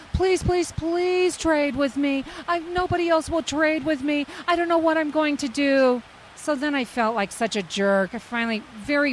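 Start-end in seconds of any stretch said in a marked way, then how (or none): 0.1-6.0 pleading. Retold or imitated. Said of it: "She doesn't give up".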